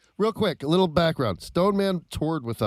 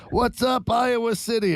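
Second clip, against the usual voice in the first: Trump greeting crowd; 8 semitones higher, slower than usual. Retold or imitated. Trump greeting wrong city.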